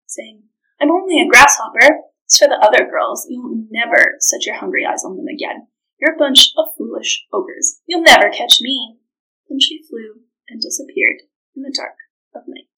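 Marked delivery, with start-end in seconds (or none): 0.8-9.0 taunting. Acted. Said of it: "Nakatumba taunted them".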